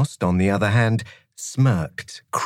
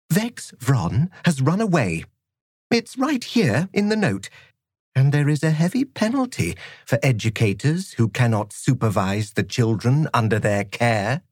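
cold, stern schoolmistress; strict teacher voice; 4 semitones higher than usual. Acted. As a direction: severe disciplinarian laying down the law. Narrator voices Miss Frost.

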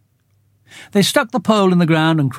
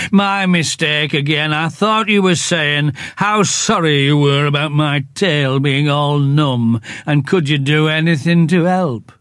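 gloomy Eeyore. Acted. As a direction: drag each word out like a sad old donkey. Eeyore voiced in story.

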